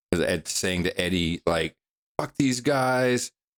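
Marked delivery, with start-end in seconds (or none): 2.2-3.3 higher-pitched angry yell. Retelling what he yelled to Eddie: imitating Steve Jobs yelling. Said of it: "He was yelling".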